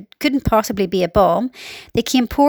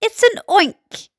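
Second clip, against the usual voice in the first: high, slow, drawn-out insistence; high-pitched storybook panic; screamed alarm; 10 semitones higher, slower than usual. A narrator's reading. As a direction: insist in horror, stretching each word. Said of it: "screamed the head of the fire department".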